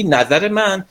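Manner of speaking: slow, taken-aback "نظر من؟" rising at the end; surprised echo. Retold or imitated. Teacher shows how a friend reacts when suddenly asked, mildly surprised. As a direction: echo "نظر من؟" slowly as if caught off guard.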